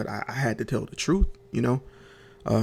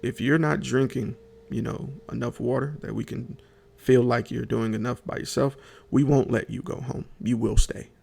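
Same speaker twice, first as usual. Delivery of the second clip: mildly stern doctor laying down terms; firm, measured retelling of a doctor's warning; lightly voiced no-nonsense doctor; stern but fair. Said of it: "she was stern but fair".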